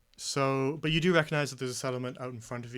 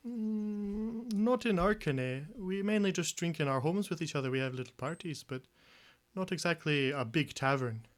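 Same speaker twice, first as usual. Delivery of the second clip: higher, chatty village fisherman voice; fisherman Weissman; 4 semitones higher than usual. Acted. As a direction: play the friendly old fisherman, pitched up.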